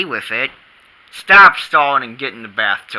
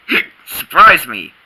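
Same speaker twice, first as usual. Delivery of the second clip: hiccups; 5 dB louder than usual. Real, not acted. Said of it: "these darn, hick, hick, hiccups".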